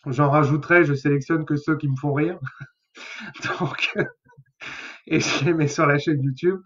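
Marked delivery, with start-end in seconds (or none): 2.9-6.6 real chuckle breaking into the words; laughing. Real, not acted. Host telling viewers about his funny playlist, laughing. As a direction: chuckle softly, then carry on talking.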